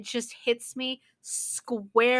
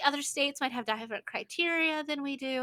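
mocking a smug official, pitched up; lightly voiced prissy bureaucrat, louder; snooty official; 4 semitones higher, 4 dB louder than usual. Mocking the school's excuse in a mild snooty voice. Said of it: "they're like".

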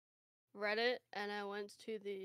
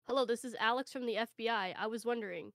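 put-on Hindi accent; faster than usual. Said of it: "Caller, with a heavy Hindi accent".

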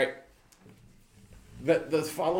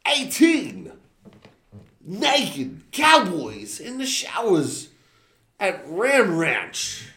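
Christopher Walken impression; 3 semitones higher, 3 dB louder, much slower than usual. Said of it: "in my best Christopher Walken accent".

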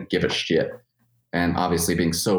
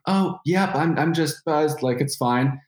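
put-on much higher, breezy drunk reassurance; mock drunk brush-off; 9 semitones higher, slower than usual. Drunk man assuring a stranger he's just buzzed, much higher and breezy. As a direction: wave her off like you're fine. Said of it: "And she's like".

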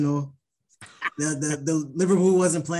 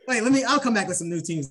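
ordinary talk, nothing marked

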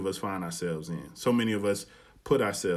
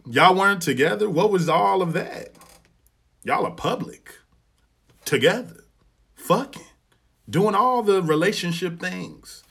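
high, loud disbelief; retelling his stunned reaction to his friend; incredulous; 8 semitones higher, 6 dB louder than usual. Retold or imitated. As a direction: push each question up in shock.

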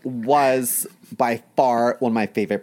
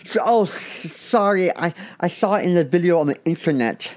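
nervous pledge; 6 semitones higher than usual. Acted. Nervous pledge answers pledge dad.

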